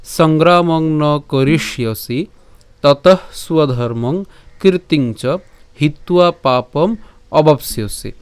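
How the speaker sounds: slow, measured Sanskrit recitation; verse recitation. Shown as a demonstration. Teacher gives today's Gita verse to the class, slow recitation. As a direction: recite each word of the shloka slowly and distinctly.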